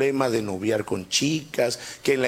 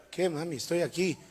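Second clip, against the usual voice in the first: put-on much softer, timid little boy; meek reply; 8 dB quieter than usual. Boy Marcelo answers his mother, very soft and meek. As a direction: answer mom barely aloud.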